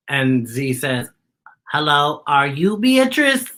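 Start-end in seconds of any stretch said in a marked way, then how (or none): 1.7-3.5 inquiring robot Z. Acted. Robot Z asking a scarecrow.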